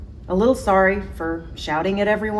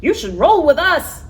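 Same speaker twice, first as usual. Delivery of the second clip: higher, louder animal voice; zebra voice; 11 semitones higher, 8 dB louder than usual. Acted. The zebras inviting Jim to roll, high and eager.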